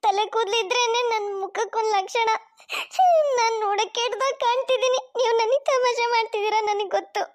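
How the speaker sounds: tearful pleading lament; crying. Acted. Wife mocked by family, crying over her bald head. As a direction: whimper and beg for her hair back. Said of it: "ಅಷ್ಟೊಂದು ಅಳ್ಬೇಡ ಶ್ರುತಿ".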